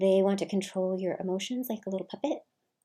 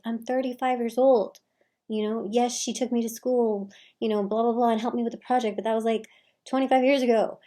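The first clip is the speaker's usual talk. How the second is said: exasperated retort; 3 semitones higher, 6 dB louder than usual. Retold or imitated. Exasperated reply to family reminders.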